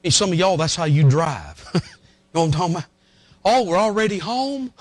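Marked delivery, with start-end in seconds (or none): 3.4-4.7 mildly surprised, pitched-up voice; mock surprise. Preacher acting out a driver who suddenly arrives, mock surprise. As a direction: act pleasantly caught off guard on arriving.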